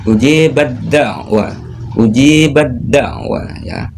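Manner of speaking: ujibat da'wah drawn out, t merged into the d; slow ujibat da'wah, b into d; slow recitation demo. Shown as a demonstration. Teacher reading the example slowly. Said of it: "Cara bacanya".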